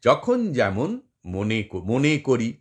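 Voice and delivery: slow, with pauses between the feet; split into beats. Shown as a demonstration. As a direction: pace it out beat by beat. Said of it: "মনে আর করির মাঝখানে যে".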